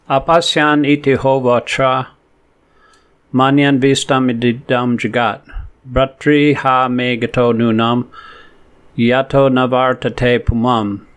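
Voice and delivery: measured devotional recitation; unhurried scripture chanting; slow Sanskrit verse recitation. Acted. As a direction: chant the verse slowly and evenly.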